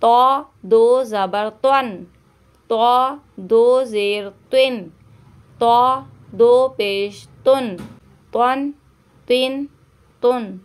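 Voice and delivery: तौ said thick and full in the mouth with a dark vowel; heavy emphatic t for a reading lesson. Shown as a demonstration. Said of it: "तौ को मोटा पढ़ेंगे".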